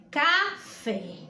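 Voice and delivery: café split in two, stress on the fé; stress on last syllable. Shown as a demonstration. Teacher giving an example of a stressed syllable, last-syllable stress on café. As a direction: slowly separate café, leaning on the final fé. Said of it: "é a sílaba mais forte".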